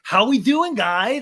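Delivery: loud, high chipper greeting; hammed-up awkward cheer; mock cheery host. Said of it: "And Sandoval's like".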